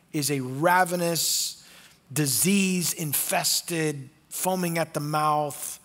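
slow, deliberate, each word weighed; slow emphatic. Shown as a demonstration. Preacher describing the wild dog, slow emphatic. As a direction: spell out each grim word slowly. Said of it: "two words used for dog".

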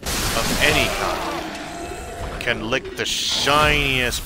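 put-on Scottish accent. Cursing the game's dogs in a mock Scottish accent. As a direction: bellow it in a hammed-up Scottish brogue. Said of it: "do the fucking Scottish accent".

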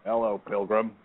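casual Western star impression; John Wayne. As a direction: put on an American movie cowboy voice. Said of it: "Talk like John Wayne".

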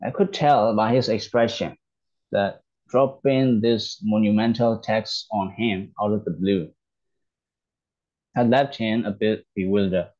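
slow, careful reading of the English text for learners; slow read-aloud. Shown as a demonstration. A teacher slowly reading the English story to learners. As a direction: read each word out slowly and clearly.

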